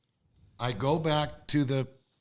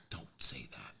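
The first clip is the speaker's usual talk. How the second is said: low, very soft protest; retold quiet scolding, pitched down; hushed objection; 12 semitones lower, 10 dB quieter than usual. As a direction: object under your breath. Retelling her hushed objection.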